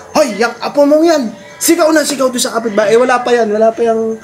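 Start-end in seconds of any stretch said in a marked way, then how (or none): 0.1-2.9 scolding father. Retold or imitated. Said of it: "sabi ni tatay".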